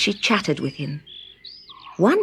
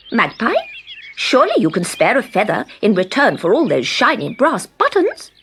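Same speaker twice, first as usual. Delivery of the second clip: sharp call; 4 semitones higher than usual. Acted. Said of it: "Thrush called sharply".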